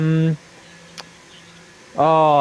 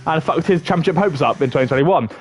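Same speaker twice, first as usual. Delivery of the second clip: live play-by-play. Acted. Commentator calling the lap on stream, lively play-by-play. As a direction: lively race commentary, rising on the corner names.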